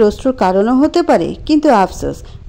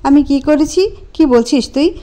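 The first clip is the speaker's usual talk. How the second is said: puzzled; 5 semitones higher than usual. Acted. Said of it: "কপাল গুটিয়ে বলল".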